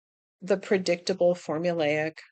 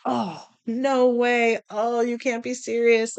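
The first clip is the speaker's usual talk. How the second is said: surprised; 4 semitones higher than usual. Retold or imitated.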